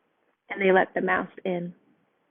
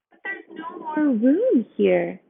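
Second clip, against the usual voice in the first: high, slow protest; refusing animals; 6 semitones higher, slower than usual. A narrator's reading. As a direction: say it can't be done.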